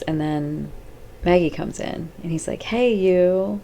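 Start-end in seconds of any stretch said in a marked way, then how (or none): 2.6-3.6 higher, smiling greeting; happy, all smiles. Retold or imitated. Patient greeting Maggie as she comes in, all smiles. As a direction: imitate a man delighted to see his visitor. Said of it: "he's all happy and all smiles".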